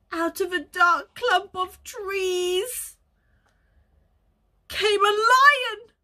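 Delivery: slow, rising to loud on lion; slow suspense build. A narrator's reading.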